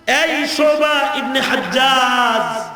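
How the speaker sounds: slow, long-drawn call of a name; acted hailing. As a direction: hail the rider, stretching each name out. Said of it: "লাগাম ধরে বলতেছে". (নাম ধরে টেনে ডাকার অভিনয়)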